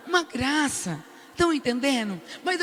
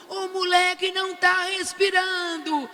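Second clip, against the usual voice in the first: higher, slower drawn-out alarmed cry; retold yell; 6 semitones higher, slower than usual. Grandmother to the staff, slow high alarmed cry. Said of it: "eu gritava".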